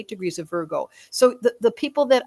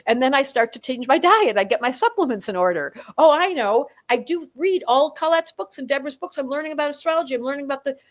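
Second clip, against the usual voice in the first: eager Virgo; 3 semitones higher than usual. Retold or imitated. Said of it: "said Virgo".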